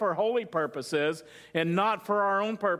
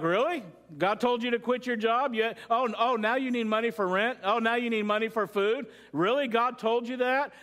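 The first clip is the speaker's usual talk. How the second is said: lightly raised, doubting questions; mock incredulous; 3 semitones higher than usual. Pastor questioning a man who quit his job, mildly incredulous. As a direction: challenge the claim with pointed mock disbelief.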